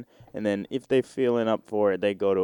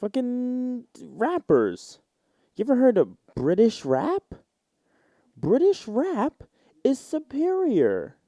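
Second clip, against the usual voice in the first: mock British rapper; 11 semitones higher, slower than usual.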